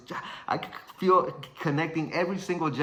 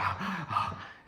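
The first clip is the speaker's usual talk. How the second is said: winded panting; 6 dB quieter than usual. Retold or imitated. Winded, waiting in his corner.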